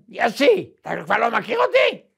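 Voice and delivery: rabbi's greeting. Retold or imitated. The rabbi calls out to an old friend, lightly voiced.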